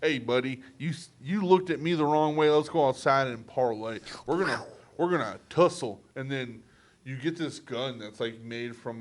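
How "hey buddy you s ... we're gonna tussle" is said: slightly hammed-up loud challenge; lightly acted confrontational voice; Western challenger. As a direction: pick a mock duel. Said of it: "Western civilization was like".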